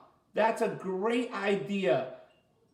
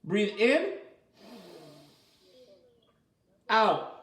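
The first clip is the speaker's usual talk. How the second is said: breathing coach. Shown as a demonstration. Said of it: "Watch this".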